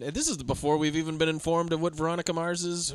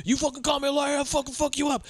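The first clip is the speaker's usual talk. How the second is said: much higher, yelling in a rage; furious shout; 10 semitones higher than usual. Retold or imitated. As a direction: scream it, losing control. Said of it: "He's punching this dude".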